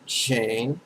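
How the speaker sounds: "Chain" said like a bicycle chain, rising at the end; pronunciation demo. Shown as a demonstration. Teacher models the first syllable for students, pronunciation demo. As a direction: draw out "Chain" as one isolated syllable. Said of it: "just like a bicycle chain".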